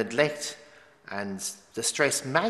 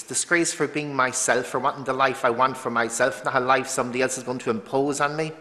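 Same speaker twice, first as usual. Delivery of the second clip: indignant challenge, pressing on without a break; indignant defiance; 2 semitones higher, 3 dB louder than usual. Acted. Answering those who called it disgrace, defiant. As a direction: throw the accusation back, emphatic and driving. Defiantly throwing the word back.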